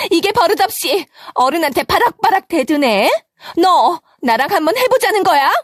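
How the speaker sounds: 높은 목소리로 따지듯 몰아붙이는 시어머니; 기가 막혀 버럭 대드는 시어머니. Acted. 시어머니가 며느리에게 소리침. (대드는 며느리에게 높은 목소리로 호통치는 시어머니)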